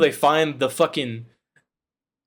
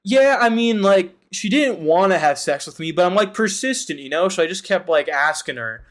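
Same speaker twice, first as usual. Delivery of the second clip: mock sleazy guy; 2 semitones higher than usual. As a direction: brag like it's no big deal. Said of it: "what he says is fucking".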